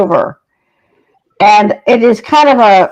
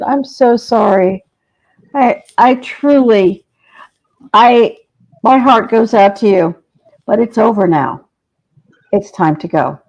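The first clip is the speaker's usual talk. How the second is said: gentle consoling. Retold or imitated. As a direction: break the news kindly, easing off. Psychic consoles dead producer.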